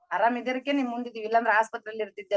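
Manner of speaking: quick, blunt comeback imitating the teacher; blunt retort. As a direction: rattle it off bluntly like the stern teacher. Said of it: "ಅಷ್ಟು ನಿಷ್ಠುರ sir". (ಗುರುಗಳನ್ನು ಅನುಕರಿಸಿ ವೇಗವಾದ ನಿಷ್ಠುರ ಉತ್ತರ)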